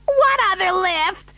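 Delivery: very high, drawn-out shriek; screamed question. A narrator's reading. Mother learning of another lift, screaming. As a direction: shriek it in slow, high alarm. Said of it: "screamed Missus T V".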